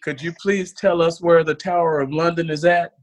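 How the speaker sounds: mock sweet apology with a sting at the end; polite, then snap the last word; lightly voiced Texan girl, sweet then rude; Texan comeback. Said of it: "she said".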